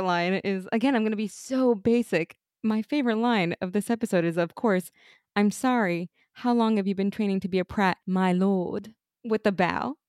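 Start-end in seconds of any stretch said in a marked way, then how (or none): 5.4-8.9 lightly attempted British accent; awful British accent. Fan quotes Merlin's line to the co-host, amateur British accent. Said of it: "my British accent is awful".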